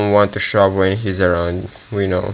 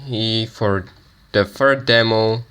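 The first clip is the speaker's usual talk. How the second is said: groggy just-woke-up voice; rough morning voice, still waking up; 2 semitones higher than usual. Real, not acted. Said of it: "this is my morning voice".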